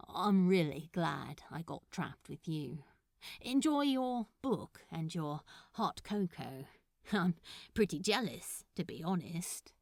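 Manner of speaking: lightly voiced nervous suitor, halting and hesitant; shy Crowley. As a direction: fumble through the offer, trailing off. Crowley says goodbye warmly.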